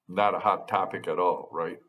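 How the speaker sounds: dry, understated sarcasm; sarcastic. Real, not acted. Opening election security to constituents with a joke, mildly sarcastic. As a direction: say it deadpan with a touch of sarcasm. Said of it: "I'm being sarcastic".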